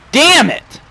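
very high, loud screaming curses; furious scream. Real, not acted. Streamer screaming at traffic in the game, furious scream. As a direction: scream it at the cars in your way.

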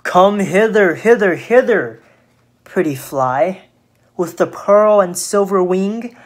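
lightly lilting spider's call; a touch of singsong flattery; merry spider luring. Acted. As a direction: call merrily to lure the fly. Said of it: "merrily did sing".

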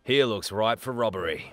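lightly voiced game character callout; Fuse impression. Player imagining Fuse in chat, lightly imitated. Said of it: "totally just talking as Fusey".

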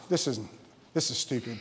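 low, hushed mumble to oneself; quiet, low aside of disbelief; self-conscious doubt. Acted. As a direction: drop right down, doubting and sheepish. Acts out doubt at first laughing.

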